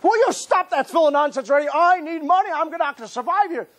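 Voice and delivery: high, pleading complaint; begging, fed up with the question; desperate son. Retold or imitated. Broke son begging father, high and desperate. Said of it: "desperate son answering father".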